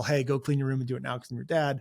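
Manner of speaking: normal talking voice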